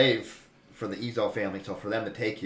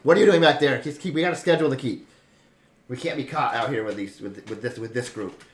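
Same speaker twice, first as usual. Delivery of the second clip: a louder, scolding call from the back; annoyed dark elf; 5 dB louder than usual. Acted. Dark elf scolding the guard, a bit louder. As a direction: snap at the guard to hurry.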